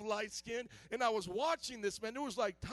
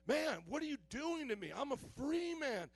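pleading protest, higher pitched; Solomon; 5 semitones higher than usual. Acted. Chained Solomon to his captor, indignant protest. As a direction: protest as the chained man, voice lifted. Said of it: "Solomon's like".

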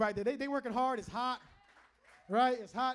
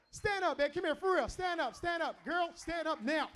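higher-pitched, insistent call to his wife; playful urging; 4 semitones higher than usual. Real, not acted. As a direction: keep coaxing her to get up.

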